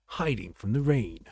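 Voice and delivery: hushed, fading wildlife documentary voice; wildlife narrator. Pretend. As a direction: whisper it like a nature doc narrator. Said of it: "it sounds like a wildlife narrator".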